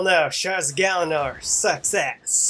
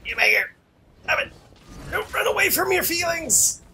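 playful shouting; 12 semitones higher, 4 dB louder than usual. Real, not acted. Yelling at fleeing enemy.

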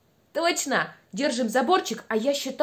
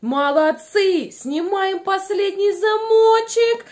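slow, loud, higher praise; drawn-out praise; 6 semitones higher, 5 dB louder, slower than usual. Real, not acted. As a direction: stretch out every word. Praising the children slowly.

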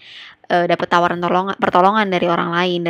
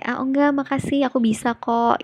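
higher-pitched, courteous Indonesian no-thanks; polite refusal; 6 semitones higher than usual. Shown as a demonstration. Teacher shows how Indonesians turn down help, polite refusal. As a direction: decline politely with a lifted, softening intonation. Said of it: "intonasi dan, eh, tata letak perkataannya emang lebih, eh, sopan".

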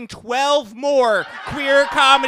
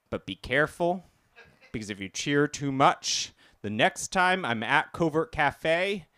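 hushed warning; 8 semitones lower, 7 dB quieter than usual. Acted. Quiet low warning aside.

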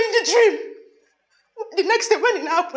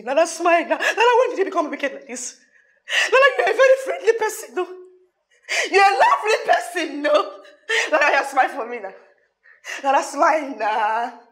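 coaxing. Acted. Coaxing Lara to smile.

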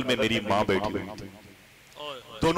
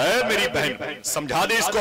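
scolding aunt; 7 semitones higher, slower than usual. Acted. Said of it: "मेरी खाला ने मेरी माँ से कहा".

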